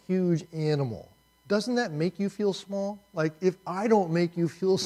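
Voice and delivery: lightly voiced God, needling the listener. Preacher voicing God to Job, a hint of teasing. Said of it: "what God is doing here is, is saying".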